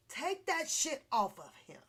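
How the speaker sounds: loud indignant demand. Real, not acted. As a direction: insist forcefully. Demanding charge be dropped.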